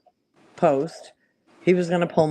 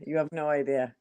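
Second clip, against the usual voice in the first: softer, ominous repeat; quiet; 6 dB quieter than usual. Real, not acted. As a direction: drop the voice, ominous. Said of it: "repeated quieter".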